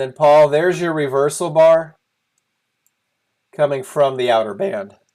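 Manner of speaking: voice breaking partway through. Pointing out a reversal bar on a chart to Paul: voice cracking. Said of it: "my voice is cracking".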